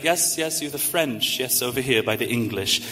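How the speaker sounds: lightly imitated British accent; Mister Bean. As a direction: usher people about in a mild mock British accent. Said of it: "I can't do a British accent well, but I try to".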